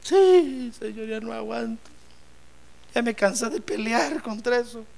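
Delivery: acted exhausted submission to God; weary surrender. Jacob acted, giving up to God.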